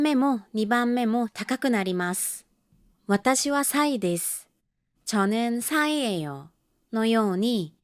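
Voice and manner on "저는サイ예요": 저는 with 저 low and 는 high, then 사이 high on both syllables; low-high tune. Shown as a demonstration. Teacher demonstrating her own name's tune, low then high. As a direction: start 저 low and jump up on 는. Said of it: "一番目のチョは低く、二番目のヌンは高く".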